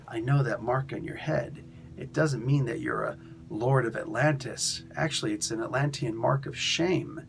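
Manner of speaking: low, understated mock taunt. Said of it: "he starts taunting me".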